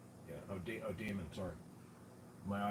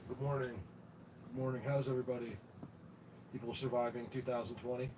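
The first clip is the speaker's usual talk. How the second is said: sleepy and groggy, just woke up; drowsy from muscle relaxers. Real, not acted. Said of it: "Sorry if I sound a little shot".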